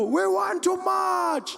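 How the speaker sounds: very high, drawn-out rally shout; long stretched mass chant; crowd response. Retold or imitated. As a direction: answer as a roaring crowd of supporters. Crowd answers the rally leader.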